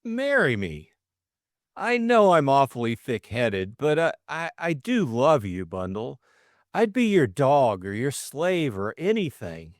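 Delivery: high, eager confession, gaining courage; nervous suitor's rush of feeling; earnest young man. Acted. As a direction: blurt out love he has hidden for ages. Bill proposes.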